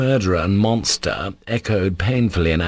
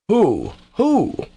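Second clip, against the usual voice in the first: high-pitched, fierce demand; almost fierce; 13 semitones higher than usual. A narrator's reading. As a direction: demand it, the repeat leaping higher. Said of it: "Ivan cried almost fiercely".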